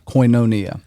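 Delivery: Koinonia as koy-no-NEE-a, copying the teacher; repeated pronunciation. Shown as a demonstration. Learner repeating it back to the teacher, careful pronunciation. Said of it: "Yes, and".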